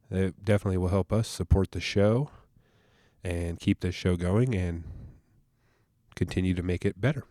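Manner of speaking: stuffy allergy voice; nasally voice. Real, not acted. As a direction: talk through a blocked nose. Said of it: "please excuse my nasally voice".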